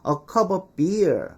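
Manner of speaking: slow, every word of the long phrase spelled out; laboured full phrase. Shown as a demonstration. Teacher showing the needlessly long wording, laboured and slow. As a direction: take your time over each word, effortfully complete. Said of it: "이렇게 힘들게 말".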